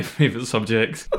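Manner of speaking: ordinary talk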